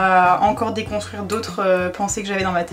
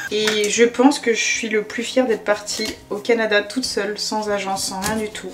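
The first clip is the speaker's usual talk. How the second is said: calmed down. Real, not acted. Vlogger answering what she's proudest of, suddenly calmed. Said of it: "D'un coup je me suis apaisée".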